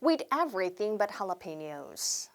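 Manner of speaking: slow, careful teacher demo of the phrase; each word spelled out slowly for learners to repeat; slow English demo; slow model phrase. Shown as a demonstration. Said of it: "한 번 더".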